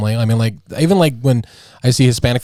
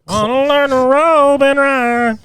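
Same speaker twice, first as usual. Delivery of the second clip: mock cowboy voice; 12 semitones higher, slower than usual. Cowboy dream, playful.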